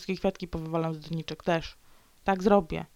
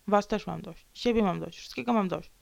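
normal talking voice

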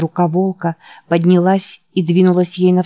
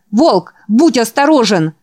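raised, urgent warning call; warning shout; 5 semitones higher, 3 dB louder than usual. Acted. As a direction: shout the warning across the room. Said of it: "крикнул он".

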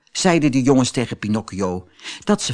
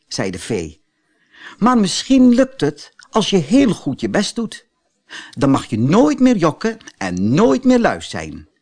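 lightly voiced kind fairy, higher; a gentle fairy, only lightly put on; fairy gently tells Pinocchio what he must do; fairy's voice; 4 semitones higher, 3 dB louder than usual.

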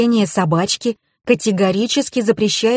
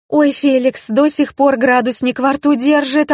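higher, a startled "oh" as it dawns on her; sudden realization; 7 semitones higher than usual. A narrator's reading. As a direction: catch yourself remembering something urgent. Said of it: "опомнилась я". (с внезапным испугом, выше обычного)

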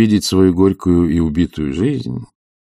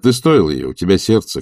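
ordinary delivery

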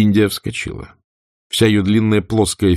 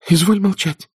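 stern order; 13 semitones higher than usual. A narrator's reading. Melanie commanding India.

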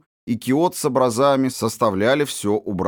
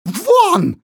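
very high, louder breathless shriek; a gasping shriek of rage; furious scream; 7 dB louder than usual. Acted. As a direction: scream her out of the house. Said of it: "задыхаясь от бешенства, закричала она".

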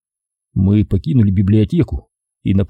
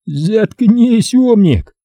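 higher snarling outburst; 12 semitones higher, 3 dB louder, much slower than usual. Acted. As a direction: snarl it at him. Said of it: "прорычал Эдгар".

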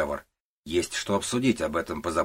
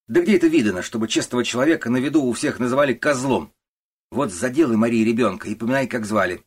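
much higher, louder indignant outburst; outraged clerk; 5 semitones higher, 7 dB louder than usual. Acted. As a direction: vent the insult in outrage. Шульц возмущён оскорблением. (возмущённый Шульц кричит)

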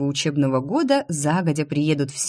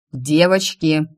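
louder, sharp summoning call; angry call; 4 dB louder, slower than usual. Acted. Father calling his daughters to the carriage, angry louder call. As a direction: call the girls over, cross. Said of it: "сердито позвал нас папа".

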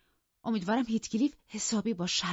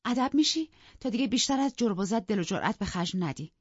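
higher, louder indignant scolding; heated, raised-pitch outburst; angry defiance; 4 semitones higher, 5 dB louder than usual. Acted. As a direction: defy your husband and rebuke him bitterly. Wife defies and berates both men.

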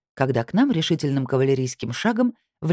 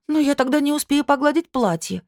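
much higher, close to crying; near tears; 12 semitones higher than usual. A narrator's reading. Анжелика fears missing ironing her dress, nearly crying. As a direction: wail it almost in tears. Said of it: "чуть не плача воскликнула".

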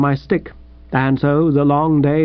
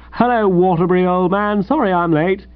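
breezy, higher-pitched hello; cordial greeting; 5 semitones higher than usual. Acted. Late editor greets his waiting contributor, cordially. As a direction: hail an old pal cheerfully. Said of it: "this cordial form of address".

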